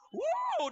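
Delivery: sudden high yelp of pain; pained wuh. Retold or imitated. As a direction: cry out as the cramp hits. Acting out stomach pain. (pekikan kesakitan yang tinggi)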